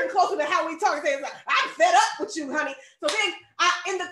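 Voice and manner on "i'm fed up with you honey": playful, louder fed-up outburst. Acted. Preacher voices a modern Bible paraphrase, comically fed up. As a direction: act mildly exasperated, punching the opening. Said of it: "it said he was fed up".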